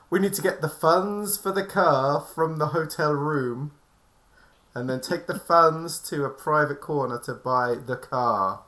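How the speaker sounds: slow, deliberate, measured wording; deliberately paced, as if speaking in code; careful code-speak. Acted. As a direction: spell out the cover story slowly and pointedly. Speaking in code for drug deal.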